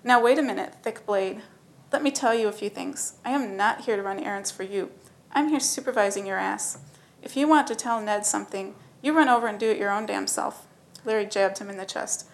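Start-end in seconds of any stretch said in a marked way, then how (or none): 0.0-10.6 louder, firm scolding; laid-back turned angry. Acted. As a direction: lay down the law, no longer easygoing. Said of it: "Larry's laid-back manner evaporated".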